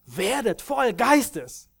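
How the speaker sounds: slow, high, loud proclamation of the apostle's command; proclaiming command. Retold or imitated. Preacher quoting Paul's command to Ephesus, slow high proclamation. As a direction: ring it out like a command from the pulpit. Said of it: "diesen Befehl gibt".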